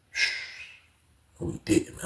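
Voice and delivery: soft unvoiced whisper; whispered disbelief. Narrator hushing a cellmate, whispered disbelief. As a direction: hush it, stunned.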